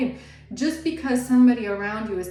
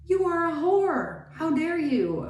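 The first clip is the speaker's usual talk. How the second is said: accusing jealous woman; 7 semitones higher than usual. Acted. Women accusing the new partner.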